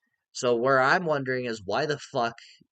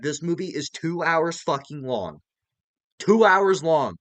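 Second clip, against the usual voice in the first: higher and louder, incredulous; exasperated rant; 6 semitones higher, 6 dB louder than usual. Real, not acted. Vlogger complaining to viewers about the running time, exasperated. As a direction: hammer the two hours.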